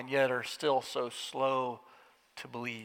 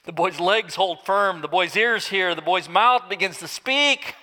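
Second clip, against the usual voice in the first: rising joy; 4 semitones higher, 6 dB louder than usual. A narrator's reading. Joyful narration builds.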